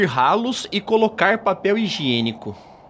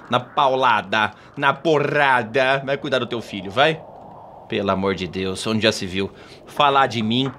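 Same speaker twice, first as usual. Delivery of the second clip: mãe brava; 7 semitones lower than usual. Acted. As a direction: grumble like an offended mother. Mãe furiosa na sauna. (mãe ofendida resmungando, voz mais grave)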